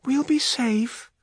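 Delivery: slow, high reassurance; soothing. A narrator's reading. Juniper comforting a crying child, soothing. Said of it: "Juniper soothed her".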